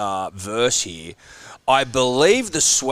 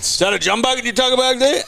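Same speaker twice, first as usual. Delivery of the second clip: a cowboy American voice, much higher; American accent; 13 semitones higher than usual. Acted. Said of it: "That sounded too American".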